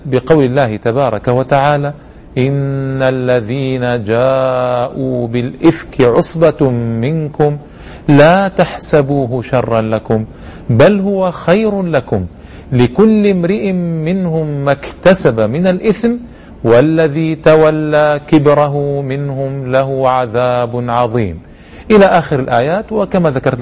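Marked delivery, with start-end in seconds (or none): 2.4-16.1 slow chanted Quran recitation. Acted. Recites the verses. 16.6-21.4 slow chanted Quran recitation. Acted. Recites the verses.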